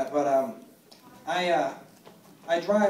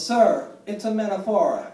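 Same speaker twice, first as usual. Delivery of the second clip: lightly mocked Italian accent, slower and higher; a hint of an Italian woman, louder; 4 semitones higher, 5 dB louder, slower than usual. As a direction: put on a drawn-out Italian accent. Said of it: "I got some Italian woman".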